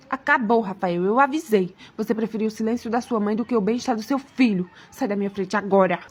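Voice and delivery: low, controlled anger; stern, fed-up wife. Acted. Wife orders husband out of her way, stern.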